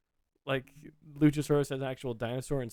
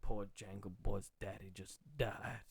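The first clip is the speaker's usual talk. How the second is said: put-on low, slow, soft New Orleans accent; mock-pitying New Orleans storyteller; 6 semitones lower, 10 dB quieter, slower than usual. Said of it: "a New Orleans".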